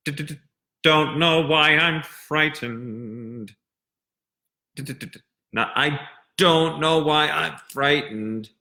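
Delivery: sung slowly with the D built up and popped, stuttered d-d-d into "don't"; crisp pressured consonants. Shown as a demonstration. Voice teacher drilling students on consonant pressure, crisp sung D. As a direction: press the tongue hard on each D of "don't" before releasing. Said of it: "the pressure that you build up in your mouth".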